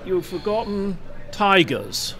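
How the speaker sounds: slow, lightly put-on actor's voice; lightly impersonated God, slow and measured; James Mason. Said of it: "in his very James Mason voice".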